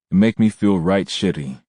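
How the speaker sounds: mild whine; whining. A narrator's reading. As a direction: complain in a whiny tone. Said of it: "I whined".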